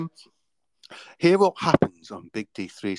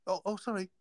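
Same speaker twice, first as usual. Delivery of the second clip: unvoiced hushed sorry; whispered apology; 7 semitones higher, 11 dB quieter, faster than usual. Customer whispering sorry to the shopkeeper. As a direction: drop to a whisper, embarrassed.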